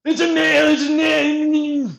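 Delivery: mild mock insistence; mocking quote. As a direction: drag it out like a dim insistent guy. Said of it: "He's like".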